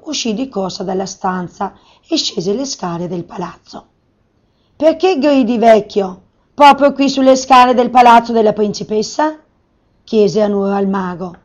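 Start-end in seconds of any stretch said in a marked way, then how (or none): 4.8-9.4 scolding call. Acted. Maid scolding the beggar.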